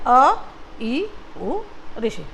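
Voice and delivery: अ, ई, उ said briefly, each on its own; quick, separate beats on अ, ई, उ; short vowels. Shown as a demonstration. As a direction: keep अ, ई, उ short, little time on each. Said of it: "बहुत कम time लग रहा है".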